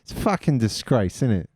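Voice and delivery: impression of himself. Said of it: "impression of me".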